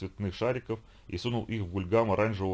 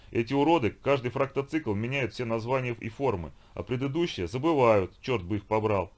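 выше и громче, с досадой; ругайся на местных, как варвар; ворчливый викинг; 3 semitones higher than usual. Acted. Викинг жалуется. (досадливый голос викинга)

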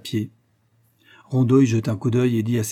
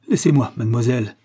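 louder, fierce brush-off; 5 dB louder than usual. Acted. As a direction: order her off fiercely. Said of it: "dit-il d'un ton farouche".

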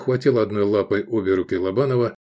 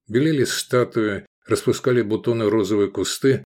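plain reading voice

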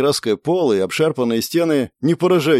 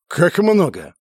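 raised, incredulous objection; protesting astonishment; 5 semitones higher, slower than usual. A narrator's reading. Innkeeper hears his price questioned, astonished protest. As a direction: bristle at the haggling. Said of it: "всплеснул руками армянин".

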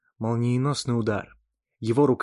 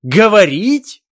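much higher, much louder slow shriek; outraged shriek; 11 semitones higher, 15 dB louder, slower than usual. Acted. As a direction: explode in outrage. Возмутился Ненависть.

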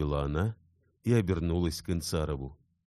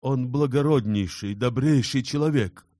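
high, loud praise; fervent praise; 9 semitones higher, 8 dB louder than usual. Acted. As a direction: exclaim it with full fervour. Insarov exclaims in praise.

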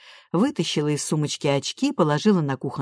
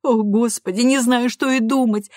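sobbing; 6 semitones higher, 4 dB louder than usual. A narrator's reading. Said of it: "всхлипывала миссис Майлз".

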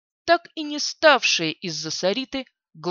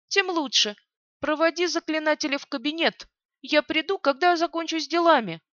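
cold commanding mistress; 6 semitones higher than usual. Acted. Alinari gives orders.

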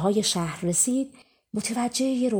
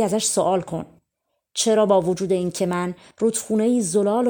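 a river calling out, a touch louder; 3 dB louder than usual. Acted. River asks the prince to question Lucky, a mildly loud call. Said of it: "رودخونه با صدای بلند گفت".

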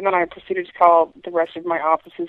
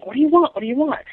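higher, mock yell of an old woman; imitating the old woman yelling down the phone; mock angry old woman; 6 semitones higher than usual. Caller imitating the old woman yelling at her. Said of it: "started yelling".

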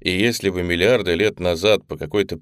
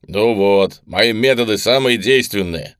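smiling, pleased; 2 semitones higher, 7 dB louder than usual. Acted. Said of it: "с улыбкой сказал главврач".

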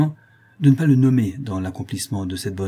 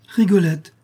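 higher and louder, calling her name; joyful cry; 9 semitones higher, 6 dB louder than usual. A narrator's reading. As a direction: cry out to an old friend. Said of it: "s'écria Fleur de Marie".

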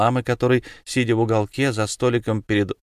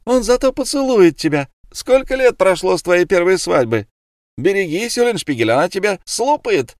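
much higher and louder, jeering; mocking girls' shouts; 8 semitones higher, 5 dB louder than usual. Tavern girls jeer at the old woman, shouting mockery. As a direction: tease the old hag loudly. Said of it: "издевались над старухой и кричали".

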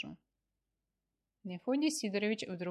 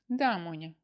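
perking up; 7 dB louder than usual. Acted. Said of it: "встрепенулась вдруг Валентина Адамовна".

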